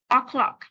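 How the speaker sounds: "O'clock" with the final k popped; released final k. Shown as a demonstration. Teacher models for students, released final sound. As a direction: finish "O'clock" on an audible k. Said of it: "cô bật hẳn âm cuối lên".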